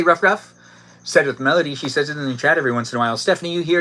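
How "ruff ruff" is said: Ruff, ruff yapped higher and louder; playful puppy yap; mock dog bark. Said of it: "who likes to say".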